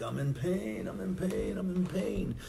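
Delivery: lightly imitated cries of pain; mock crying. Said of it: "just crying".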